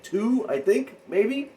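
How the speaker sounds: sarcastic disbelief; incredulous. Real, not acted. Mocking the player's three-point count.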